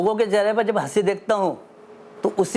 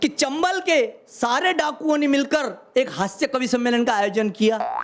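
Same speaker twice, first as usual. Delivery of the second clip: measured stage recital of humorous verse; phrase by phrase to an audience; comic poem recitation; 3 semitones higher, slower than usual. Acted. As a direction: declaim it like a hasya kavi. Poet begins comic recitation.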